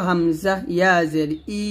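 ই held long as a lengthened ee; one-alif stretch. Shown as a demonstration. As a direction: spell it out, then stretch the final ই. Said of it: "এক লিপ টেনে পড়বো".

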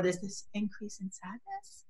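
demonstrating sadness with a hushed drop; voice going soft. Shown as a demonstration. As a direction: let the voice fall away very softly. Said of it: "their voice goes soft".

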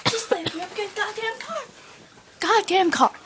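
put-on building to a drunken shout; drunken yell. Drunk yelling at cop.

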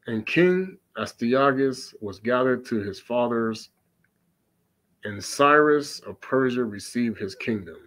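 put-on measured reading of the old text; scripture reading. Preacher reading Bel and the Dragon to listeners, steady. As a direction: read the passage steadily, solemnly.

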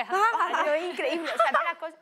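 chuckling while telling; laughing. Real, not acted. Player recalls the bone injury, laughing.

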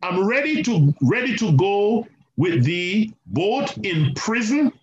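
high, slow, earnest pledge; Peter's eager vow. Retold or imitated. Peter vowing to follow Jesus to death, high earnest voice. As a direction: stretch each promise out like a vow. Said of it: "So Peter is saying".

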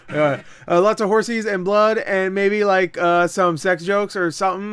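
tipsy, loose rambling. Real, not acted. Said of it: "I'm so drunk right now".

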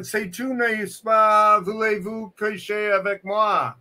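exaggerated French Canadian patter; mock French Canadian. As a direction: put on a playful French Canadian voice. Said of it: "He says he's French Canadian".

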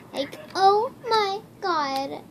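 put-on high, drawn-out valley girl voice; mock girly gushing, slowly; girl voice trolling. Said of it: "girl voice trolling".

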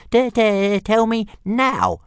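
high, slow demand with a stutter; stammering little dragon. A narrator's reading. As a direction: squeak out an impatient stammered demand.

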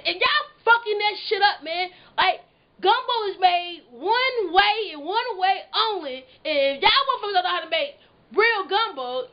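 heated rant. Real, not acted. Ranting at people who post bad gumbo, heated. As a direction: scold them for ruining gumbo.

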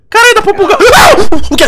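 high shrieking scare; terrified scream. Real, not acted. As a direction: scream in sudden fright. Jump scare in game. (grito de pavor)

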